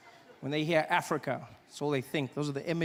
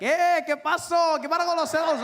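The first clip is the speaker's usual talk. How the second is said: high, loud mock greeting; Spanish-speaking guys; 10 semitones higher, 6 dB louder than usual. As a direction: hail a countryman in excited Spanish. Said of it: "guys come up to me".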